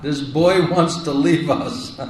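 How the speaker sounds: slow, amused retelling of a mother's worry; mother's fond worry retold with a laugh; laughing through a quote. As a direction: chuckle mid-line while quoting her.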